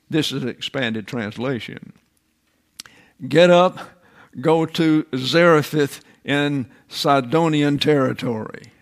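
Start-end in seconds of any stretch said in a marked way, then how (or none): 3.3-8.7 commanding shout. Acted. God's command to Elijah.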